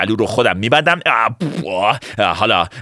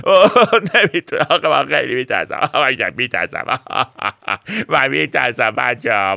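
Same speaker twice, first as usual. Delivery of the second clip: mock crying. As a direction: giggly fake sobbing that tails off. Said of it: "ولی بس دیگه".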